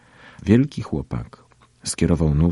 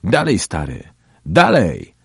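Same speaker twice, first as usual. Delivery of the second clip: egging a friend on loudly; raised-voice goading; rowdy cheering call; 3 semitones higher, 5 dB louder, slower than usual. A narrator's reading. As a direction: call out like jeering classmates. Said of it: "śmiali się i wołali".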